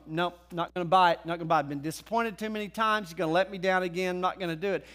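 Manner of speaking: low, dismissive imitation of a doubter; stubborn refusal. Thomas refusing to believe, low stubborn dismissal.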